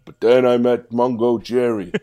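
loud, rousing pep talk; rally the crowd like a fired-up coach; big inspirational address to the cats; inspirational speech. Acted. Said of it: "He's being inspirational".

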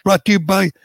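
quick, punchy ad copy over music at the end; sponsor ad read. Acted. Host reading the credit union ad to listeners, upbeat ad read. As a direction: pitch the car loan to the listeners.

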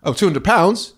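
high-pitched incredulous question; hammed-up disbelief; mock parental shock. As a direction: balk at the price like a parent. Parent's shocked reply in the story.

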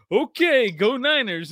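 put-on high, wary little kid; small child voice. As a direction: placate the crazy dad timidly. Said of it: "He's like".

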